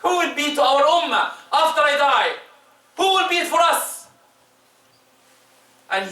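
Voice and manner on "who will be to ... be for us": rising, pleading. Retold or imitated. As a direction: repeat it with mounting worry. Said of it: "He said".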